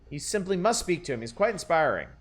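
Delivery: lightly voiced fussy temperance lady; a hint of a proper, prim matron; reading the Temperance lady's lines, lightly prim; prim old lady. Voices the Ethel Wright NPC.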